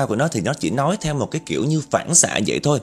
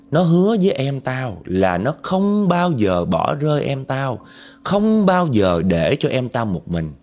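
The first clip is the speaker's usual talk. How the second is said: vengeful ghost woman. Acted. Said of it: "cái vong nữ ... trả lời đó".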